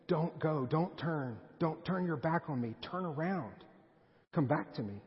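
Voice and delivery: re-enacted parental plea; pleading. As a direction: imitate a father begging his child to stay. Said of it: "I'm gonna lay it on thick".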